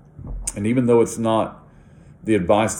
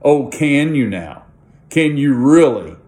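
dry mocking disbelief, louder; sarcastic; 4 semitones higher, 5 dB louder than usual. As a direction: tease them with doubt. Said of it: "I think I would respond sarcastically".

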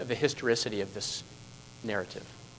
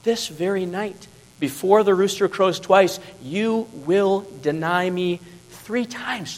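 voicing Jesus; 4 semitones higher than usual.

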